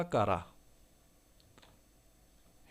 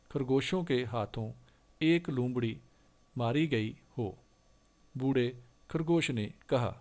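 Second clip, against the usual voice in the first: story reading; 3 dB louder than usual. Acted. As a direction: read the fable out clearly for the class. Reads Hindi story passage aloud. (ਬੱਚਿਆਂ ਲਈ ਹੌਲੀ ਕਹਾਣੀ ਪੜ੍ਹਨਾ)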